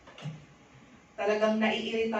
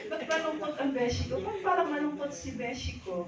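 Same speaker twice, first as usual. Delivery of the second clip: higher, sing-song concerned friend; asking friend; 6 semitones higher than usual. Retold or imitated. A friend fussing over her sad beshi. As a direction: play the worried friend asking again.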